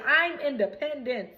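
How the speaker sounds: proud declaration of independence; proudly announcing he's independent. Retold or imitated. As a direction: say it with pride, chest out. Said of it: "Said that proudly".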